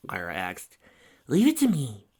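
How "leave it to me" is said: loud, high declaration; declaring. A narrator's reading. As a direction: announce it boldly. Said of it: "Bon Bon declared".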